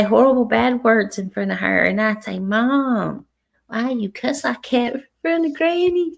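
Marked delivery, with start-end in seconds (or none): 2.4-6.1 high, climbing reproachful question; retold protest. Daughter to mom cussing before Granny, protesting. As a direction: imitate a daughter objecting, pitch rising.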